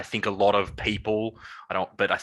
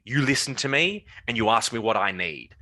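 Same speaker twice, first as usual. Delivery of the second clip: retold triggered demand; 3 semitones higher than usual. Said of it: "I was really emotionally triggered".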